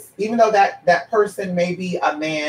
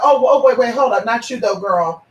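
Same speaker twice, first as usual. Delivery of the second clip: mock backpedal; 2 semitones higher than usual. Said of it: "And then all of a sudden".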